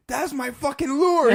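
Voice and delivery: high, loud, slow astonished cry. Retold or imitated. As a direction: shout it, spotting your lost lure. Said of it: "He's like".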